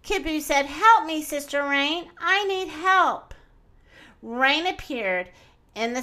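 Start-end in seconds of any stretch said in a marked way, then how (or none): 0.6-3.3 calling for help. Acted. Pounced-on boy calls Mother Crocodile, frantic. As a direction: call out desperately to the crocodile.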